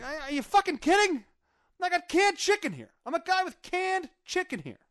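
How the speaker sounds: very high-pitched mock disbelief; exasperated retort. Husband answering wife over the supplies, exasperated high retort. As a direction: protest in a squeaky, incredulous rant.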